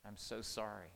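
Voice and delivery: softly earnest, unhurried; apologetic. Retold or imitated. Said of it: "I started telling my children".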